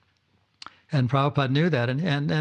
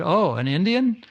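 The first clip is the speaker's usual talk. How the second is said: indignant surprise; 5 semitones higher, 3 dB louder than usual. Retold or imitated. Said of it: "then he became very angry".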